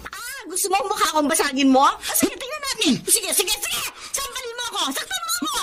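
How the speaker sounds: taunting dare. Acted. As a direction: goad him to hit you. Wife taunts husband during fight. (nanunuyang hamon)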